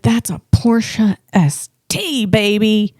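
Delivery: slow, savoured mock reveal; imitating a husband showing off; imitated proud reveal. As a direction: draw it out as a big car reveal. Imitates her excited husband's reveal.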